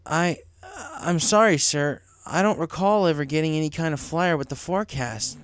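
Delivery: flustered apology to the boss; stammering. Acted. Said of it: "Cloud Chaser stammered".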